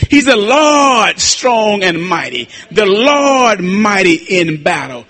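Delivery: slow, stretched preacher's declamation; declaimed scripture. Real, not acted. Preacher reciting Psalm twenty-four to church, declaimed scripture. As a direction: proclaim the psalm with weight, drawing out key words.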